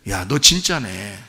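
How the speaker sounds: slow, low, softened imitation of a companion; impressed onlooker. Companion recognising a true believer, low impressed murmur. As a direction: quietly voice dawning respect. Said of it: "그 사람을 뭐라고 하겠어요?".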